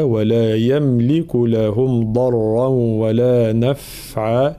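slow, measured tajweed chanting; Quran recitation. Shown as a demonstration. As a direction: recite each word drawn out. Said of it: "في قوله تعالى". (تلاوة مجودة بطيئة)

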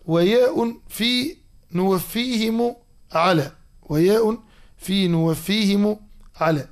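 slow, stretched recitation of didactic verse; verse citation. Acted. Teacher quoting the poem's proof line twice, slow measured recitation. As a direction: recite the line deliberately, lengthening the words. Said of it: "نجده في قول ناظمها".

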